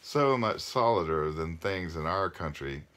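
measured read-aloud with phrase-end pauses; story narration. A narrator's reading. Parent reading a novel aloud to listeners, storytelling.

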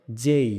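যেই drawn out with a closing glide; careful, stretched যেই; correct letter J. Shown as a demonstration. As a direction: model যেই alone, vowel sliding to "i". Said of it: "উচ্চারণটা কী হবে".

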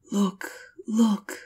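excited cry. A narrator's reading. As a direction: call out as the tree, eager to show. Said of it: "cried the tree".

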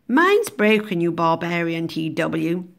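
admonishing teacher. Acted. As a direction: scold as a superior, dismissive teacher. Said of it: "admonishing him. It's a posh word for telling him off".

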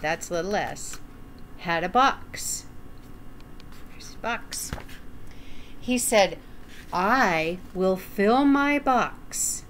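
gentle storytime narration; reading to children. Acted. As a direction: read it like storytime for little ones. Reading a picture book aloud.

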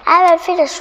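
high, loud triumphant cry; the witch cries out her spell; cried out. A narrator's reading. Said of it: "cried the witch".

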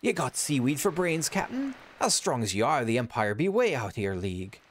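high hearty pirate; hearty high sailor voice. Acted.

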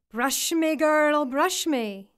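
put-on high call with a loud girl; a strange head calling from the water; eerie creature voice. A narrator's reading. Head asks ugly daughter.

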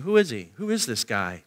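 soft, low wondering question; quiet seeking. Acted. Seekers in the crowd wondering about Jesus, quiet and low. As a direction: ask it low, as if privately puzzled. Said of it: "You see, they're seeking".

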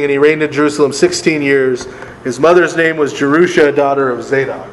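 reading aloud, lifted and steady; scripture reading. Acted. Teacher reads Kings to the class, scripture-reading voice. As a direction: read the verse out clearly to the group.

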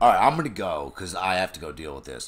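loud, high, rushed mock impatience; exasperated. Son off to deal with fire, mock exasperated. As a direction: hurry off with hammed-up exasperation.

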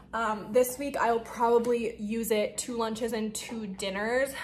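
winded, catching breath between words. Real, not acted. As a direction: talk a little breathless. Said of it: "I'm out of breath".

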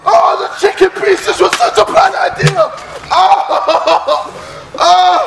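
gasping yells under ice cold water. Real, not acted. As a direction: scream from the freezing shock. The chicken pieces were such a bad idea.

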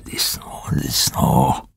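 tired, low, dismissive captain; listless. A narrator's reading. A weary captain hushing the prisoner, listless. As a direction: mutter it out without energy. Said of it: "kedvetlenül mondta".

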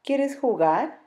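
high, hopeful bear asking to play; sleepy bear's eager invitation; friendly bear. Acted. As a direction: invite him sweetly, rising hope.

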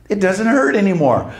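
high retold outburst of amazement; retold freak-out. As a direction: imitate her astonishment at being healed. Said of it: "She started freaking out".

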